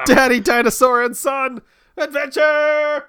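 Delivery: big booming trailer announcer; movie trailer voice. Pretend. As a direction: announce it like an epic movie title.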